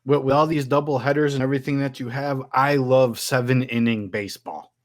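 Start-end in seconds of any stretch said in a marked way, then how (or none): 2.5-4.7 sarcastic. Acted.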